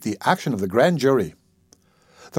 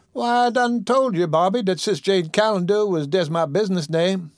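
put-on higher old woman's voice, scolding fondly; chiding old auntie; 7 semitones higher than usual. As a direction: tease him like the child you raised. Dicey explains impatiently.

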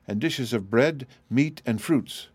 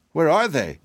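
higher, with a touch of surprise; astonished; 5 semitones higher, 3 dB louder than usual. A narrator's reading. Dorothy finds the piglets have vanished, astonished. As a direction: ask it in mild astonishment. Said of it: "in astonishment".

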